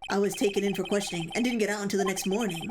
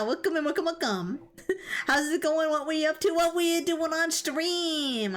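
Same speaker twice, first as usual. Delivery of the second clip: excited greeting; 5 semitones higher than usual. Real, not acted. Streamer welcoming raiders to the stream, high excited hype. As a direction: throw the doors open for the raiders.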